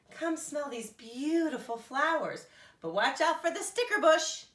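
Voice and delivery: high, bright bird voice; Big Bird voice. A narrator's reading.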